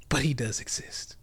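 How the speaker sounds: a knowing hushed whisper. Real, not acted. Hinting to viewers he's the man, whispered. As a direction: whisper it like a legend. Mysterious aside about himself.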